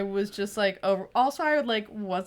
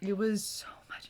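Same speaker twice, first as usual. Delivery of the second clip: whispered, softer aside; hushed; 6 dB quieter than usual. Real, not acted. Confiding about a five-day whirlwind, hushed. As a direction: drop to a whisper.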